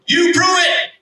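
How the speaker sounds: high yell that falls hard on prove; repeated defiant challenge. Retold or imitated. Angry man repeating his dare to God, falling high yell.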